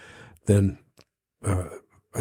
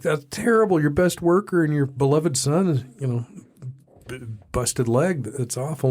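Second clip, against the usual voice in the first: higher, dismayed neighbor, hammed up a little; mock horror at the son's broken leg; shocked neighbor; 4 semitones higher than usual.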